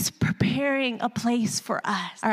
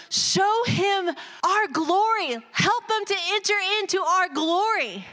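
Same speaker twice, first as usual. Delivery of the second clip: voicing Jesus praying; 8 semitones higher than usual. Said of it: "he goes".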